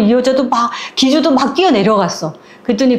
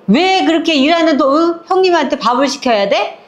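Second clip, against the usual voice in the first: put-on high, reproachful old woman telling off; scolding old neighbour; 5 semitones higher than usual. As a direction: scold like a blunt village grandma. 할머니가 시어머니를 꾸짖음. (높은 목소리로 꾸짖는 동네 할머니)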